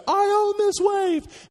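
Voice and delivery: high, loud and slow, claiming the wave; drawn-out victorious cry of ownership; triumphant shout. Retold or imitated. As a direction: yell it out like you've conquered the ocean. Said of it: "I think I actually said".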